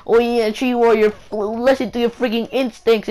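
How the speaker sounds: high, loud mock exhortation; mock self-advice. Vlogger voicing advice to himself, mock urging. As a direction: raise the voice as if urging yourself on.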